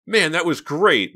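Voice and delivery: high, loud, drawn-out delight; elated high-pitched exclamation; excited. A narrator's reading. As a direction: declare it, thoroughly thrilled. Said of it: "Mickey declared excitedly".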